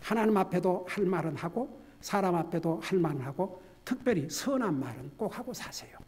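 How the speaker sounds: ordinary talk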